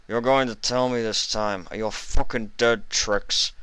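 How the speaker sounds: threatening through a mouthful; mouth full. Acted. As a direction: growl it with something in the mouth. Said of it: "It sounded like he had something in his mouth".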